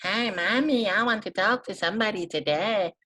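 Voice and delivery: put-on high, childlike squeaky voice; high shrill kid voice calling mommy. Shown as a demonstration. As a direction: pitch it way up like a little kid. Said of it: "If I have a shrill voice".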